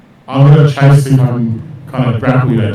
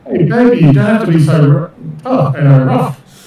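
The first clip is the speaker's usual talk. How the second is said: lightly acted come-on, pitched up; in-character flirting; 5 semitones higher than usual. Player's character coaxing the one outrunning him, higher-pitched mock flirting. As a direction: play a mock sweet-talker, voice lifting high. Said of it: "That's what I say out there".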